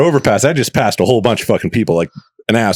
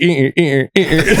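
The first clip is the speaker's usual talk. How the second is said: imitated window creak; 5 semitones higher than usual. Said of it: "the window is going like".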